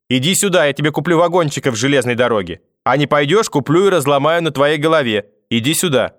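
put-on coax, then menace the child; threatening grandmother. A narrator's reading. Grandmother chasing her fleeing grandson, bribing and threatening. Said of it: "угрозы в мой адрес".

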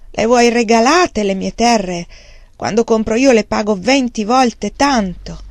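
loud, slow, indignant protest; outraged. Acted. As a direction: throw the insult back at them. Wang Lung outraged at the price. (protesta indignata e forte)

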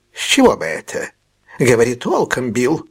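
a hint of a wary old man; lightly voiced old man pressing for answers; old miser coaxing the truth out; Fagin the old fence.

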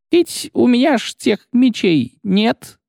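high, slow, squeaky frightened clerk; panicked clerk. Acted. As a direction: wheeze it out in panic. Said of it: "захлебнулся, хватаясь за грудь".

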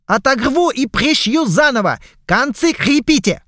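high, loud scolding shout; angry shouting orders. Acted. Pirate captain yells orders at the goblin crew. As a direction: yell orders at the bungling crew. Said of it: "рявкнул голос".

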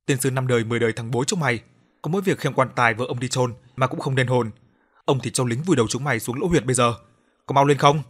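fast, loud furious cursing that swells to a shout; angry cursing. Acted. Old official cursing the coffin bearers, furious shout. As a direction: rage at the clumsy bearers. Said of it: "mà rủa xả".

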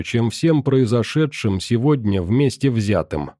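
plain reading voice

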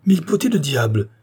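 loud, high-pitched curse; resounding oath. A narrator's reading. Visitor spotting the doctor among the nettles, resounding oath. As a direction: let the curse ring out. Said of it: "lançant en l'air un juron retentissant".

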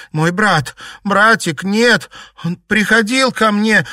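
high, loud lament; grief-stricken, escalating cries; tearful wailing. A narrator's reading. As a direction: wail for a lost brother. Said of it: "причитала она, заливаясь слезами".

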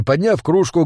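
ordinary delivery

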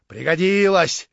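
loud, drawn-out exclamation; shouted. A narrator's reading. Another onlooker chimes in, calling out loudly. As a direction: call it out slowly from the crowd. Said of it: "крикнул другой".

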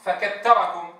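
فكتركم with ت in place of ث; wrong pronunciation. Shown as a demonstration. Teacher imitates the error of saying t instead of th. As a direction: say فكتركم with a plain t sound. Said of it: "بدل أن يقول".

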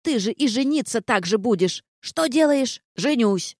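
high mocking mimicry of a blunt reply; gargoyle mocking Vard. Gargoyle mocks how Vard answers everything, high mocking mimicry. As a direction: parody his one-word answers, scolding.

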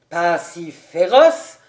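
slow, incredulous Pas si féroce?; slow indignant repeat; indignant echo. A narrator's reading. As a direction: throw the words back, offended. Cobus throws back Han's words.

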